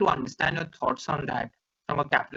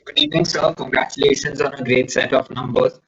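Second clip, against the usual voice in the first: muffled, as if through a hand; 3 semitones lower, 8 dB louder than usual. Real, not acted. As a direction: speak with a hand over your mouth. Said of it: "your voice is sounding muffled".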